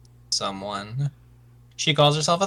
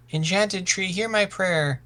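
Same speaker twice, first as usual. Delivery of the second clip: higher-pitched, formal plea; solemn invocation; 4 semitones higher, slower than usual. Acted. Youth praying to an enchanted tree, solemn invocation. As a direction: call upon it as in prayer.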